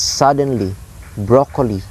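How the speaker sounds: "suddenly" and "broccoli" stressed on the first syllable; "suddenly", "broccoli" falling away after a strong first syllable; dactylic stress. Shown as a demonstration. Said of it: "like that".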